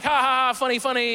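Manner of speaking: loud fake ha ha ha; mock laugh. Him to friends after the prank, forced mock laugh. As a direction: laugh it off, hammed up.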